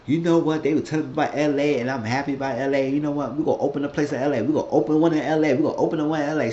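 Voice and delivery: mock giddy, running on quickly; giddy retold excitement. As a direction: imitate someone happily rattling off big plans. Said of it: "he was so crazy".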